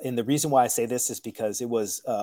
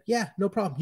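lightly higher, placating reply; easy agreement; 6 semitones higher than usual. Acted. Cook humoring an out-of-control manager, placating. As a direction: agree readily, no pushback. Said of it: "I just agree with him".

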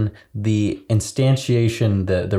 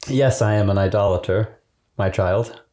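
suppressed laugh. Pretend. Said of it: "I can't keep a straight face on that".

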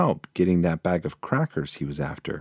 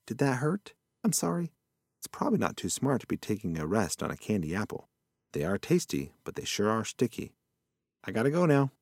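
put-on softer, mild apologetic old critter; a gentle mumbled sorry; soft old possum; 2 semitones higher, 6 dB quieter, faster than usual. Possum apologises to hurt mouse.

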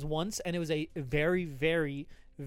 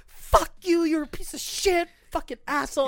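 mock angry fans; 10 semitones higher, 4 dB louder than usual. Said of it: "everyone's like".

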